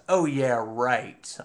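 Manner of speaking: mock agreement, not meaning it; tongue-in-cheek agreement; facetious. Shown as a demonstration. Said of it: "saying it facetiously to you".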